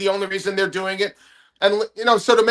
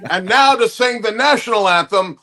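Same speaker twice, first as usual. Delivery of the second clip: lightly voiced anthem introduction; hammed-up stadium introduction; mock stadium announcer; 3 semitones higher than usual. Host introduces retro singer for the national anthem, mock announcer.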